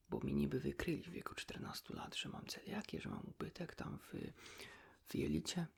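normal talking voice

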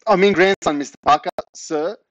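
loud, high, flustered blurting; panicked correction. A narrator's reading. Boy retreats from the neighbour, loud panicked correction. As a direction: hastily correct yourself in alarm.

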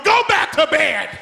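a hint of a gruff grown-up; stern adult. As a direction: call it from the next room. Voice from another room.

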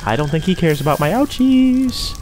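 high, meek placating voice; timid politeness. Pretend. Player asks Mister Angel to let them past, timidly polite. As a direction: plead sweetly to be let by.

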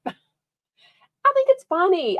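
high, slow laugh through the words. Real, not acted. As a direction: giggle while saying it. Laughs at the fake voicemail.

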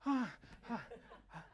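hammed-up fright cries; startled yelps. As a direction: gasp as if a scream just jolted you. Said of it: "and I'm going".

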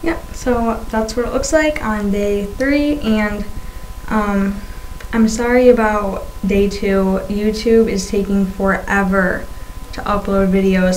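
talking around a swollen tongue; lisping with a fresh tongue piercing; tongue piercing speech. Real, not acted. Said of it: "having a hard time talking today".

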